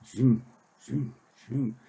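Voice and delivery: rhythmic zooms miming a handsaw; imitated sawing noise.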